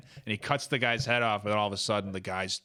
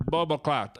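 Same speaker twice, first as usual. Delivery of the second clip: mock Jamaican accent; 4 semitones higher, 3 dB louder than usual. Comic capping his thug bit, mock Jamaican accent. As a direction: toss out patois in a put-on Jamaican accent. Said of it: "two Jamaican dudes are like".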